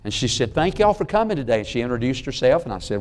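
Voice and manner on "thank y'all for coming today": put-on sweet old lady. Old church lady greeting.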